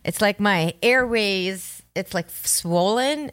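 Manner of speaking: sick and wheezing; wheezy voice. Real, not acted. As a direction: talk through swollen airways. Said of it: "so I'm wheezing".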